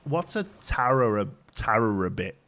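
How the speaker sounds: halting puzzled question, rising at the end; imitated baffled boss. Boss asking about an overheard phone phrase, baffled and halting. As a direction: grope through the unfamiliar words, baffled. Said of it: "he was like".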